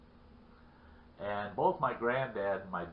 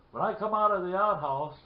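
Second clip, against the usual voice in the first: higher and louder, worked-up storytelling; acted shaken retelling; 7 semitones higher, 6 dB louder than usual. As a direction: play the rattled man starting his account. Shaken man retells his scare.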